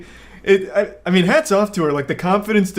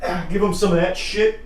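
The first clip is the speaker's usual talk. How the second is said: excited hype; 5 semitones higher than usual. Real, not acted. Showing off dance moves on camera.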